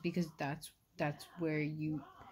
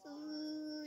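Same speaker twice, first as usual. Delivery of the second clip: fake sob; 10 semitones higher, 7 dB quieter than usual. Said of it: "putting an act on it".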